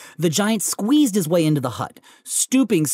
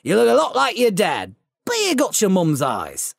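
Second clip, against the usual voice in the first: Hagrid voice; 3 semitones higher than usual. Acted. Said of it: "said the giant".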